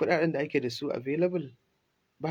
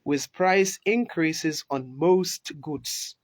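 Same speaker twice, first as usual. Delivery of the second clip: slow, deliberate, word by word; slow dictation; 2 semitones higher, much slower than usual. Shown as a demonstration. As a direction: repeat it slowly for learners. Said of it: "A ƙara jin misalin nan".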